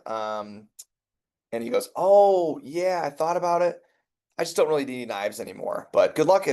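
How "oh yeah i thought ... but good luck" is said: high, casual mock brush-off; breezy brush-off. Customer casually turning down the rep, breezy and high. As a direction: toss it off lightly, pitched up.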